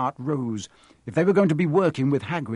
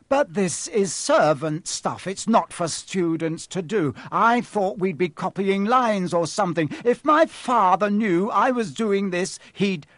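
higher, indignant whine; panicky protest; 7 semitones higher, 4 dB louder than usual. A narrator's reading. Boy objecting that it is servant work, panicky. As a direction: protest with growing urgency. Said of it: "note of panic in his voice".

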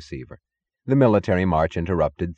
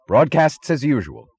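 raised, higher commanding voice; ordering; 7 semitones higher, 5 dB louder than usual. A narrator's reading. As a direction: issue it as a firm order. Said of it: "ordered Mister Thompson".

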